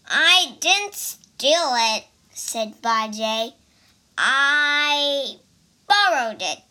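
loud protest. Acted. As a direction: protest your innocence loudly. Pig defends himself.

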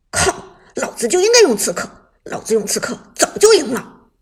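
loud frustrated outburst; exasperated rant. Acted. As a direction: rage at losing. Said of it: "许旺气急败坏地说道".

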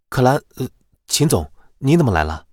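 tense voice. Acted. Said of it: "孙离声音发紧地问道".

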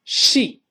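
sheep with a long, held ee; long vowel. Shown as a demonstration. Teacher modelling the long vowel for students, long ee in sheep. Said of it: "这是长音一".

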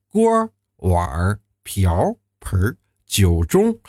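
锅儿 碗儿 瓢儿 盆儿 each with a curled er, 酒盅 dragged out slowly; struggling to curl the er on 锅儿 碗儿 瓢儿 盆儿; erhua drill. Shown as a demonstration. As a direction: list 锅儿 碗儿 瓢儿 盆儿 like an exam drill. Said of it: "那儿字老是出不来".

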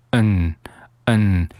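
"and" reduced to a nasal 嗯; just the n sound of "and", 嗯; weak form of "and". Shown as a demonstration. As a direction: say "嗯" for a weakened "and". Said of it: "这个and弱读成嗯".

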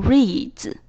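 "reads" with d and s fused as dz; merged dz ending. Shown as a demonstration. Teacher adding S to read, "reads" ending in dz. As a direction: end "reads" on one dz sound, no vowel between. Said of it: "而不是reads".

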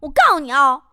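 loud, high, rapid threats; imitated angry yelling. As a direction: keep berating without letting go. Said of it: "我就跟他喊". (模仿自己当时高声吼着威胁)

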